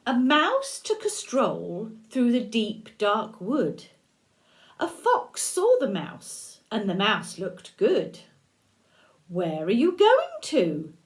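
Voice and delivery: lively read-aloud with light character voices; storybook reading. A narrator's reading. Grandmother reading The Gruffalo to a child, lively. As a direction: read it to a little one, with a touch of play.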